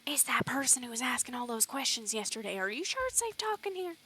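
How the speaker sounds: wary miner. Acted. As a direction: nervously check it's safe to talk. Worried miner voiced, wary of being overheard.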